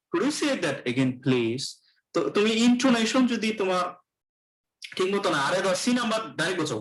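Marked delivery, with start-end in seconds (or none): 0.1-1.7 slow, rising polite request; politely asking for a repeat; polite intonation. Shown as a demonstration. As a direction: ask it gently, letting the voice lift on say. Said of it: "এখানে সে intonation দেয়".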